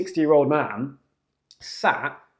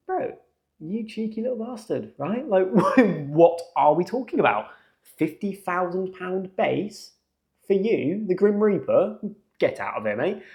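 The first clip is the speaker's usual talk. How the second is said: incredulous outrage; 4 semitones higher than usual. Retold or imitated. Outraged thought at salary demand.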